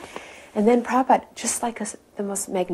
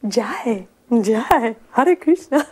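imitated blissful chant, pitch climbing; retold blissful smile; 5 semitones higher, 4 dB louder, much slower than usual. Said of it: "had this blissful smile on his face".

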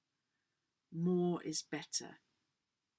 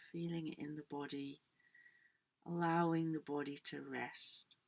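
guided relaxation. Acted. Yoga teacher guiding the class into letting go, guided relaxation.

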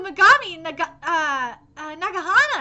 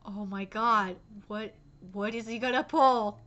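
low, very soft disbelief; hushed dread; 13 semitones lower, 11 dB quieter than usual. Real, not acted. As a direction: drop right down, stunned and quiet. Dreading the villain's next move.

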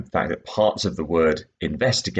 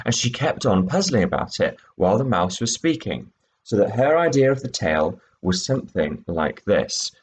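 expressive read-aloud; story reading; 2 semitones higher than usual. A narrator's reading. Teacher reading the mouse's tale, expressive. Teacher reads second extract.

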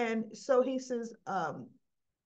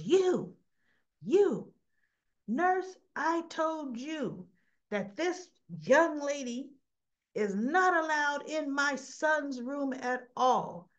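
raised, high and slow commanding rant; angry father; 4 semitones higher, slower than usual. Retold or imitated. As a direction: lay down the law, each word spaced. Father orders nurse to remove girl.

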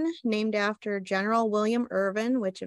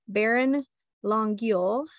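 slow, careful French pronunciation of Longueuil; French accent; slower than usual. Shown as a demonstration. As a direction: say the name like a Frenchman, unhurried. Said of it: "that's the best French accent I can give you".

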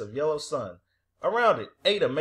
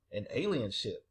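hushed, low and fearful; fearful whisper; 5 semitones lower, 7 dB quieter than usual. A narrator's reading. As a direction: drop to a frightened hush. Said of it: "Aislinn whispered, shivering with fear".

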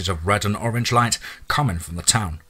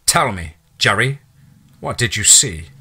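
calm, uncaring; 3 dB louder than usual. Acted. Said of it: "in a calm, controlled, uncaring low voice".

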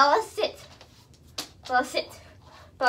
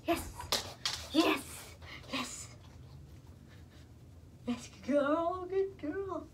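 soft, higher-pitched praise to a dog; cooing praise; 4 semitones higher, 12 dB quieter, slower than usual. Real, not acted. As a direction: coo it softly and slowly.

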